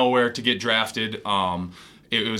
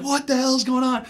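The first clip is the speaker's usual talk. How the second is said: acted bewilderment; 12 semitones higher than usual. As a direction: replay total confusion under a pile of teammates. Acts out confusion under the dogpile.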